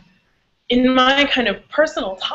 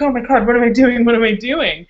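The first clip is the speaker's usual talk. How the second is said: retold flustered panic, a bit louder; 4 semitones higher, 4 dB louder than usual. Speaker recalls questioning herself mid-scene, flustered. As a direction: repeat it as if catching yourself, thrown off. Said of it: "I just got all flustered".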